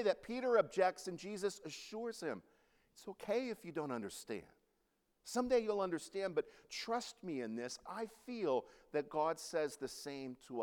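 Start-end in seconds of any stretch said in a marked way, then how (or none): 2.9-7.8 gentle assurance. Retold or imitated. Jesus assures Peter.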